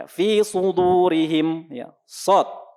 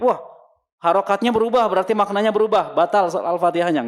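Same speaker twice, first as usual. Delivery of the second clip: mock alarm, voiced higher; worried listener; 5 semitones higher than usual. Teacher voices a worried listener fearing invalid prayer. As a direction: play the panicked objector. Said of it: "Enggak, jemaah".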